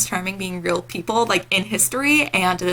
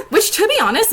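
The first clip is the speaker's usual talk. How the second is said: giggling through the words; laughing; 12 semitones higher than usual. Real, not acted. Vlogger cracks herself up thinking of a band, laughing. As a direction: laugh it out at your own joke.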